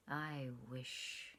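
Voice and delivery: low, soft and troubled. A narrator's reading. Lover on the lawn confesses, low and troubled. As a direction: murmur it, heavy with trouble. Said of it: "in a low, troubled voice".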